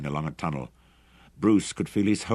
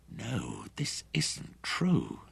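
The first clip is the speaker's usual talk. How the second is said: slow, higher, voiced denial; a touch louder, denying; 3 semitones higher, 4 dB quieter, much slower than usual. A narrator's reading. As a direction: say it out loud to undo it. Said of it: "He spoke louder".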